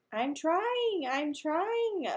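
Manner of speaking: called out high; hollered. Acted. Boy hollering back to his brother. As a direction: holler it through the wall. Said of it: "Fudge hollered".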